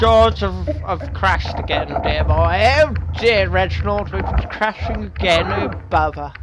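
lightly voiced plummy toff; mock posh English. Crashing truck driver playing a mock posh gent. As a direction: put on a jokey upper-class manner. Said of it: "let's talk all posh now".

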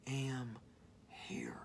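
drawn out, dropping to a whisper; slow, dropping three words; hushed. Acted. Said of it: "he's just saying".

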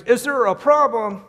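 very high, very loud outraged echo; screamed back. Retold or imitated. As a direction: fling the question back in a rage. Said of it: "The guy screams".

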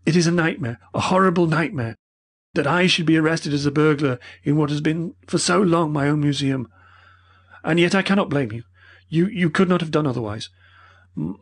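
put-on high, strained, distraught old man; shaken old professor. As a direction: close to breaking down.

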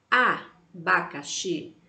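abacaxi stretched slowly after the vowel; teacher models the whole word. Shown as a demonstration. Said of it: "olha o som de abacaxi".

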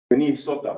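Minnesota said as "mnisota", Dakota vowels; Dakota pronunciation. Shown as a demonstration. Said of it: "the Wakpa Minnesota".

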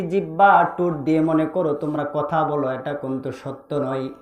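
low chanted sermon cadence; low, rhythmic preacher's chant; melodic preaching. Real, not acted. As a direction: intone the list musically, stretching the last question.

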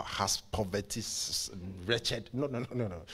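ordinary talk, nothing marked

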